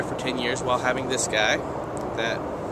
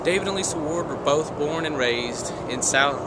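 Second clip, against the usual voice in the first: flat robotic voice; 3 semitones higher than usual. Pretend. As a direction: speak like a robot. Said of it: "I'm talking like a robot".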